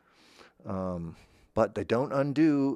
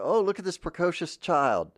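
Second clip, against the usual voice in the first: gushing show host; 8 semitones higher than usual. Retold or imitated. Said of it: "They go".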